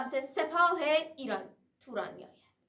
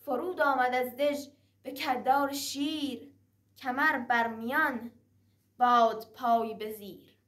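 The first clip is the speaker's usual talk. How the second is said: raised rhythmic verse chant; epic teahouse storyteller; 2 semitones higher than usual. Acted. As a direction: declaim it like a Persian naqqal. Shahnameh verse recited between prose. (نقالی حماسی با آهنگ شعر)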